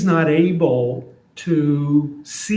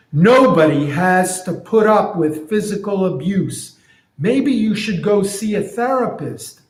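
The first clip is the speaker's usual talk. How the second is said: higher, lightly voiced advising friend; concerned friend; 4 semitones higher than usual. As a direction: friend suggesting a therapist. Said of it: "So here's what I'm imagining".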